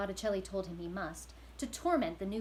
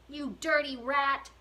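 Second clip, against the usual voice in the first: slow, higher, louder insult; angry shout; 6 semitones higher, 8 dB louder, slower than usual. Acted. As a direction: spit it at the rat. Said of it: "shouted the prisoner".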